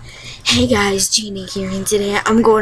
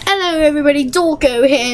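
mock British YouTuber intro; British accent; 4 semitones higher, faster than usual. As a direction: put on a light British accent. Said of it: "I had to pop out my British accent".

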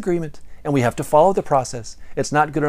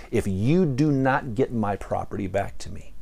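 mild ogre anger; 2 semitones lower than usual. Acted. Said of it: "with steam coming out of his ears".

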